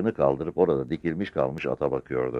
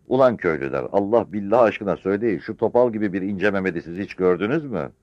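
raised, insistent appeal; exhorting village woman; 5 semitones higher, 4 dB louder than usual. Acted. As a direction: press the crowd for an answer. (köylülere ısrarla soran yaşlı kadın)

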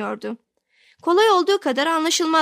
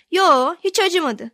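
higher, drawn-out brave denial; yiğitçe umursamazlık; 6 semitones higher, 4 dB louder, slower than usual. A narrator's reading. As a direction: play a child bravely shrugging off pain. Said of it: "her seferinde yiğitçe". (yiğitçe, hiç umursamadan)

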